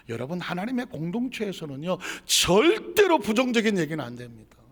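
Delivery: emphatic preacher's admonition; forceful preaching. Real, not acted. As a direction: drive the warning home to the congregation.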